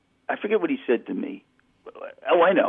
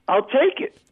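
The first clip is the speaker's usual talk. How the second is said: relieved; 12 semitones higher than usual. Retold or imitated. Collect call, relieved reprieve.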